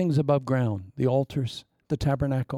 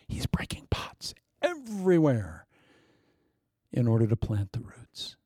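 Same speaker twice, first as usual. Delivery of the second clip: whisper; 2 semitones lower, 4 dB quieter than usual. Acted. Mysterious prophetic aside.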